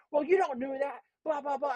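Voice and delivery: high, whiny-angry mimicry of a customer; mock irate customer. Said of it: "she started losing her shit".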